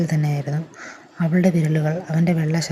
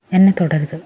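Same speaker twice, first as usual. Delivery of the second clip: louder, sharp, voice trembling with fear; frightened cry; 6 dB louder than usual. Acted. Cornered woman warns the man, frightened and loud. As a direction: push him off in panic. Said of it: "അവളുടെ ശബ്ദം വിറച്ചിരുന്നു".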